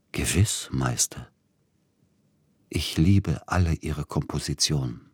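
nasal solemn. Acted. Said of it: "besonders näselnd und langsam".

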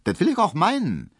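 high, loud, short snap; clipped, huffy reply; curt retort. A narrator's reading. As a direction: cut him off sharply. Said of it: "gab Hedwig kurz zurück".

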